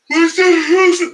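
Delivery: sudden high loud cry; shrieked what's that; startled yelp. Real, not acted. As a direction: jump at a noise. Startled by something.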